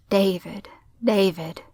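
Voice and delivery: gently cooed name, lightly done; cooing. A narrator's reading. Cowboy father calming his son, cooing. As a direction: soothe a child with a mild coo. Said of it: "the cowboy cooed".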